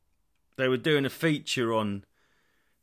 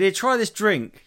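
higher, louder, slow coaxing offer; offering a drink; 9 semitones higher, 7 dB louder, slower than usual. Retold or imitated. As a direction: coax a friend to taste, slowly. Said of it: "and you said".

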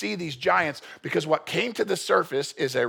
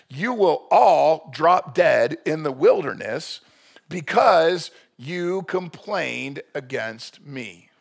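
solemn scripture pronouncement; 6 dB louder, much slower than usual. Acted. Reading God's verdict from Numbers.

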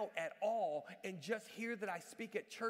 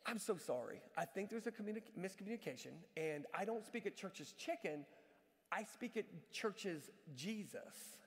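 gentle apology; 6 dB quieter than usual. Retold or imitated. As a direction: break the news kindly, softly. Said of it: "And so I said".

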